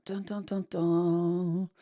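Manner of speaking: sung dramatic dun dun dun; mock suspense jingle. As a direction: hum a playful drumroll of suspense.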